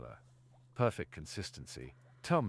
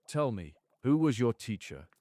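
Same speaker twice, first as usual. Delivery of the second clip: pressing; 6 semitones higher, 8 dB louder than usual. Acted. Professor presses pointedly.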